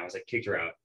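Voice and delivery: normal talking voice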